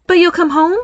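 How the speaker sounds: high, hopeful question; lifted, relieved voice. A narrator's reading. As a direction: relief while checking for confirmation. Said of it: "Dania confirmed with relief".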